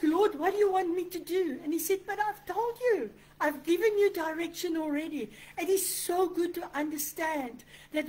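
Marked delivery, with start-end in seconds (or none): 0.0-1.6 high, loud mock plea to God; exasperated plea. Believer asking the Lord what to do, exasperated. 2.1-5.3 higher, insistent acted answer; mildly exasperated, as if already explained; exasperated reply. God answering someone who always asks, exasperated.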